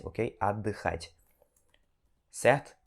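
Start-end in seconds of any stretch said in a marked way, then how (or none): 0.4-1.2 отдыхать said softly with a brief break where the T sits; отдыхать, the T turned into a pause; quiet model of отдыхать with the mute T; pause for the silent T. Shown as a demonstration. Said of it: "E aí você fala".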